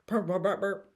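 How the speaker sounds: playing up her own Pennsylvania accent; mock Pennsylvania accent. Joking about her Pennsylvania accent, mock Pennsylvania accent. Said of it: "my specific accent is Pennsylvania".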